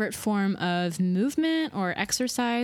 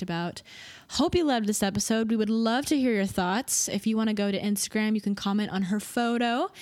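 podcast outro; 4 semitones higher than usual. Acted. Host reads podcast outro.

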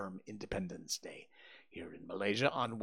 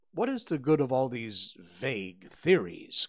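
impatient; 2 semitones higher, 7 dB louder than usual. Acted. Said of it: "cried the banker impatiently".

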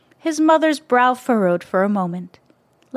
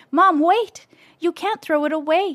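higher, urgent plea; crying out; 8 semitones higher than usual. A narrator's reading. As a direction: stop her before it's gone. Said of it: "he cried".

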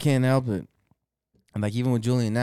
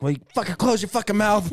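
retold snap; 10 semitones higher, 3 dB louder than usual. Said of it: "finally I snapped".

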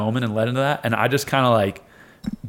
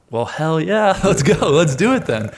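higher-pitched, eager acted quote; fired-up reply; 5 semitones higher, 4 dB louder, slower than usual. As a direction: act out being pumped to go. Fired-up reply to coach's confidence.

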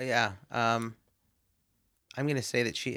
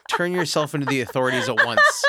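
mock command; 3 semitones higher, 6 dB louder than usual. Mock stern order to listeners.

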